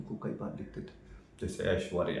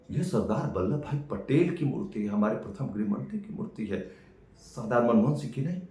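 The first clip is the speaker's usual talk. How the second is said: indignant correction; 3 semitones higher, 5 dB louder than usual. Acted. Brother indignantly corrects a wrong answer.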